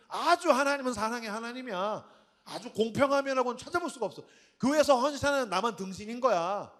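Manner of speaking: a hint of a bitter churchgoer mocking God; sarcastic complaint. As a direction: grumble sarcastically like a jealous believer. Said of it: "우리가 하나님을 비꼬듯이".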